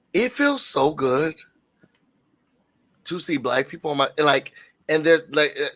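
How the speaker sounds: fighting to keep the voice steady; steadying shaky voice. Real, not acted. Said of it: "I'm getting emotional".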